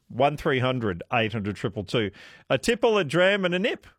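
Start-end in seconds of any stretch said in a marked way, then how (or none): 2.5-3.9 high sing-song list; playful high. Acted. Phrase said twice, first time raised.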